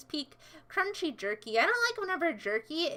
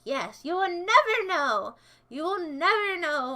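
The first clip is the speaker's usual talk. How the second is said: mock voice changer; 3 semitones higher, 3 dB louder than usual. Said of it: "Voice changer off".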